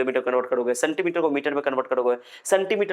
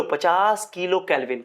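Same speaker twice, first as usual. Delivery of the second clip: slow read-aloud demo; 2 semitones higher, slower than usual. Shown as a demonstration. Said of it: "कहाँ पढ़ोगे इसको, पढ़ो".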